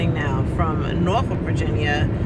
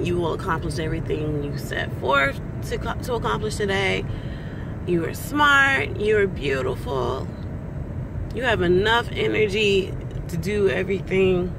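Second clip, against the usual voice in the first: positive affirmations; 2 semitones higher than usual. Shown as a demonstration. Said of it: "I recite positive affirmations to myself".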